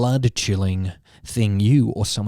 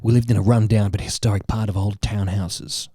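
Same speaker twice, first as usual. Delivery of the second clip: lowered, mock-grave horror storyteller; Garth Marenghi; 4 semitones lower than usual. Host reading friend a spooky story, lightly voiced Garth Marenghi. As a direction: narrate like a self-serious horror author, lightly. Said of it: "doing it in Garth Marenghi's voice".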